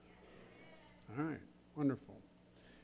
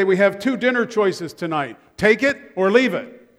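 a touch of a no-nonsense father, louder; mock stern dad; 4 semitones higher, 6 dB louder than usual. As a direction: lay down the law like dad. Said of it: "my dad would say".

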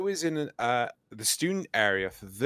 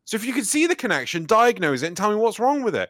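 high, fast, louder rant at support; retold customer losing patience; exasperated demand; 8 semitones higher, 5 dB louder, faster than usual. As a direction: demand it in rapid, raised pitch. Acted quarrel with tech support.

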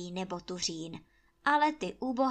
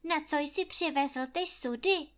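higher, louder scolding; lashing out; 7 semitones higher, 5 dB louder than usual. A narrator's reading. Anče scolding Kuba angrily over the barrels. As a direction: jump on him as if it were his fault.

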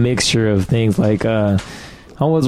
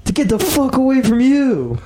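retold yell. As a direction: shout the heckle across the room. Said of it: "someone just quickly yelled".

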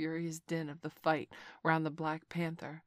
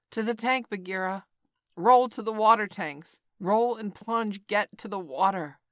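loud, high shouted directions; calling aloud; 4 semitones higher, 9 dB louder than usual. A narrator's reading. Mowgli shouting to Bagheera in battle, loud. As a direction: call it across the fight. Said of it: "he called aloud".

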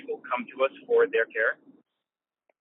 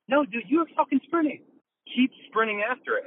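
fired-up outburst; 12 semitones higher than usual. Real, not acted. Host to Bob, urging him to keep sprinting, fired-up outburst. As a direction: shout it like you're pumping up a runner.

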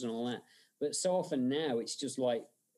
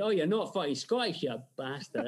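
mock-indignant Glaswegian driver; guttural Glaswegian. Cab driver unmasking his fake Scot, guttural Glaswegian. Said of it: "guttural Glaswegian".

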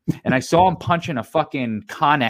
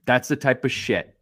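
whispered aside; 6 semitones lower, 4 dB quieter than usual. Real, not acted. Aside muttered under breath.

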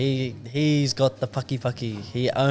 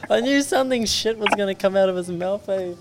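high laughing remark; 10 semitones higher than usual. Real, not acted. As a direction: say it while still laughing.

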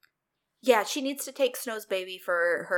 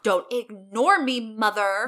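demanding call; 6 dB louder, slower than usual. Retold or imitated. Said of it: "Regina calls out for her mom".

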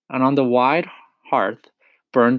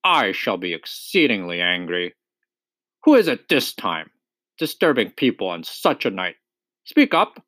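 lightly gruff badger, sharp at the end; a touch of a wary, grumpy badger; gruff suspicious voice. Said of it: "said a gruff and suspicious voice".

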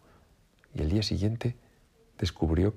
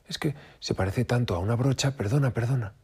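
higher, innocent rabbit voice; fake-sweet sorry; sly rabbit pretending innocence; mock apology; 7 semitones higher than usual. A narrator's reading.

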